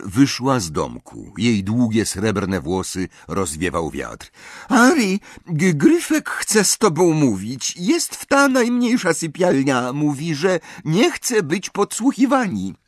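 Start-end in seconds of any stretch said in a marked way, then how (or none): 4.7-12.7 put-on high, light voice in a French accent; French accent, a bit put out at carrying messages; French-accented Fleur. Fleur tells Harry the goblin wants him, French accent.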